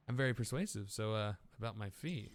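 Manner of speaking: put-on Australian voice for a game character; amateur Australian, stuck in the accent. Fixer asks about the fee, Australian accent. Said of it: "I'm stuck on Australian".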